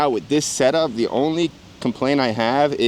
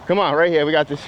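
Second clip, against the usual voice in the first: pumped up; 4 semitones higher, faster than usual. Real, not acted. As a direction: hype yourself up before the attempt. Psyching himself up before trick.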